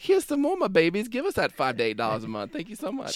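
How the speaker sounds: mock sweet-talking the paying subscribers; mock doting host. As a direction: coo at the fans like babies. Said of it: "then we're like".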